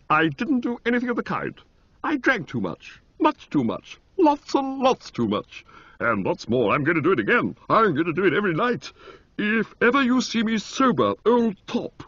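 high, ringing and rapturous; holy exaltation. A narrator's reading. Motty to Bertie vowing to drink, exalted and high. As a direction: proclaim it like a sacred vow. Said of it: "he said with a kind of holy exaltation".

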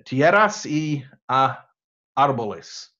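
halting Spanish with an American accent. Real, not acted. Speaker quoting a Spanish definition, halting American accent. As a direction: pick slowly through the Spanish with American sounds. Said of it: "Again, terrible American accent".

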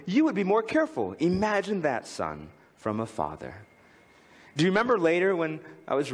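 reading a poem aloud with feeling. Acted. Speaker reading Father Forgets to the audience, heartfelt reading. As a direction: read it as a father's confession to his sleeping son.

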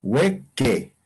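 "hueque" sounded out as two syllables, we-ke; demonstrated pronunciation. Shown as a demonstration. Teacher showing the Quechua pronunciation, carefully sounding out "hueque". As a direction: say "hueque" carefully, starting on a w-glide. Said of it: "esta la pronunciación? Sería hueque".

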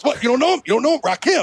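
incredulous rapper impression; rapid mock challenge as the rapper. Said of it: "the only impression I can fucking do".

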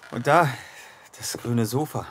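surprised. Acted. Spotting the old sofa.

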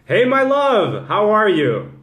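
loud, high, long-drawn hello; hearty greeting. Real, not acted. Host greets a loved one on the live, hearty greeting. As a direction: sing out the greeting, stretching it.

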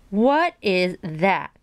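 very slow, drawn-out astonishment; mild cry, each word held long; astonished cry. Acted. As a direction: stretch each word in disbelief. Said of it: "cried, cried Bridget".

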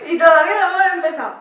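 fast, loud and laughing. Real, not acted. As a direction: blurt it out through laughter. Laughing fit, repeat louder.

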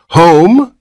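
high, loud rising disbelief; incredulous. Acted. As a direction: repeat it in shock. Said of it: "repeated Mister Button incredulously".

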